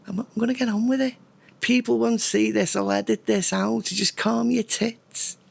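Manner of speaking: high, rushed, then slowed on calm your tits; telling his own nagging brain to back off; exasperated to himself. Real, not acted. Vlogger answering his own impatient thoughts, high and exasperated.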